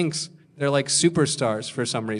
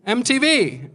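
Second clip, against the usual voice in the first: retold shout; 10 semitones higher, 4 dB louder than usual. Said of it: "a guy just shouts at me".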